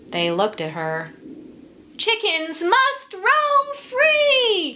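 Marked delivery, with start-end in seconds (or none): 2.0-4.7 high, slow, ringing call to freedom; rousing declaration. Acted. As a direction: proclaim it like a rallying cry. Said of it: "she said".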